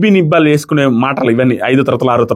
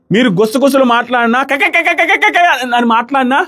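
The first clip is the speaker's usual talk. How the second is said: mimicking whispering; 8 semitones higher than usual. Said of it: "ఇది same చేశారు".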